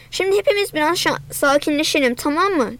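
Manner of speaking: ordinary delivery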